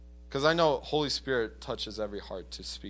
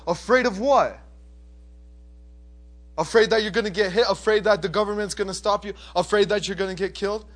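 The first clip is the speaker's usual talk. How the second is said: high, raised, rapid-fire questions; acted incredulity, pitched up; incredulous retort; 7 semitones higher, 6 dB louder than usual. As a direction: fire back in disbelief. Retold incredulous reply to fear.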